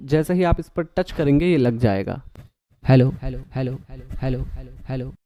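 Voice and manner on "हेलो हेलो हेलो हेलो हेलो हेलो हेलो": repeated hellos fading into echo; echoing mic test. Shown as a demonstration. Testing his voice-over preset for viewers, echoing hellos. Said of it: "ये मेरा normal preset है".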